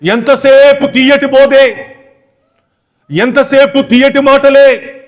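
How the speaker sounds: drawn out slowly, each word weighed; slow emphatic scorn. Acted. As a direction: spell it out slowly, scornful of sweet talk. Preacher mocks sweet preaching.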